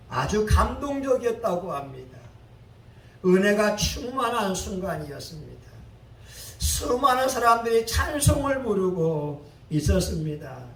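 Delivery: ordinary talk, nothing marked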